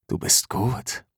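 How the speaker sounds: tonlos gehauchtes Lob; geflüstert. Acted. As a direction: ihr das Kompliment zuflüstern. Anerkennend zu ihr gesagt. (leise geflüstert)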